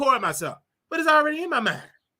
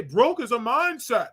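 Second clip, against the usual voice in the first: mocking rich people; slower than usual. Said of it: "Only rich people say".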